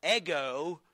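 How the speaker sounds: "ego" said as a loud, separate Greek word. Shown as a demonstration. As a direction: pronounce "ego" clearly as Greek. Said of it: "put the pronoun in front of it".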